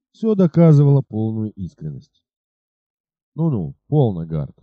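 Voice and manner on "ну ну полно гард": calm the man down gently; soothing. Acted. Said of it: "успокаивающе сказал всадник".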